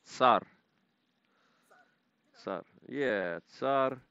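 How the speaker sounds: Tsar with a sharp t-s at the start; crisp ts onset, short fall; German ts sound. Shown as a demonstration. Learner copies German z as ts, crisp onset.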